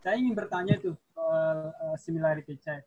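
speaking too far from the mic. Real, not acted. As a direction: voice distant from the microphone. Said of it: "suaranya agak didekatkan mic-nya".

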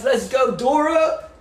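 high, bright shout of celebration; excited cheer. Real, not acted. Streamer cheering a viewer's ten K likes, excited shout. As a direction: cheer her name like a win.

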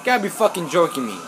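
high, loud disbelieving yells; outraged. Real, not acted. Gamer yelling at Trevor for driving at him, outraged shout.

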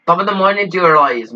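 light mock Irish intro; lightly put-on Irish YouTube intro; Irish accent. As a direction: do a hint of Jacksepticeye's Irish. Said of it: "I dropped the Irish accent after I did the intro".

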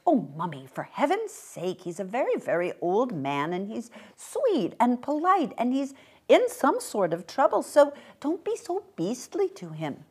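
put-on child's earnest protest, rising as it goes; lightly voiced pleading child. Child begs mother to be kinder, mildly exasperated.

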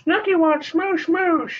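high put-on girlish voice as Snooki; Snooki impression. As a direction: squeal it like a party girl. Teasing Jersey Shore Snooki.

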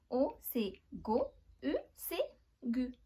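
"go" and "gu" spelled out slowly with a hard g; slow letter demo. Shown as a demonstration. Teacher spelling out g sounds to the class, slow and deliberate. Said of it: "avec la lettre O, la voyelle".

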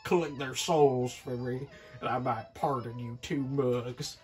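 scheming villain voice; devil voice. Acted. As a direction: lay out the deal like a devil.

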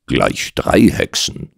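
slow mocking echo, "drei" lifted. Doctor pokes fun at the client's witches, mocking. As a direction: draw out "Gleich drei Hexen" in mild mockery. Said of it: "warf ich spöttisch ein".

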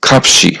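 খাপসি said slowly and clearly as a Korean word; Korean pronunciation demo. Shown as a demonstration. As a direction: sound out খাপসি carefully, syllable by syllable. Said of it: "এই শব্দটার সঠিক উচ্চারণ হবে".

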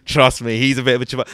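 loud, insistent mock white lad; white boy fan. White fan vouching for his uncle to the comic, loud imitation. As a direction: press the claim loudly, imitating a lad. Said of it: "White boys, same shit".

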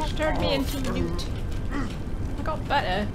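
mock British film-quote voice; Monty Python British accent. Attempting a Monty Python scene for a friend, British accent. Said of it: "The one from Monty Python".

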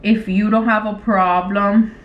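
slow, halting dictation; typing aloud. Real, not acted. Replying to his text, slow dictation. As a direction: say each chunk as you type it.

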